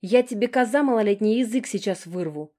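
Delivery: high, loud furious threat; furious snarl. A narrator's reading. Older sister threatening the younger one, furious shout. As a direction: lash out in rage. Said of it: "вызверилась Алекс".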